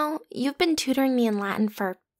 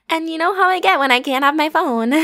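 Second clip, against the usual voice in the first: laughing; 5 semitones higher, 6 dB louder than usual. Acted. Joking about phone.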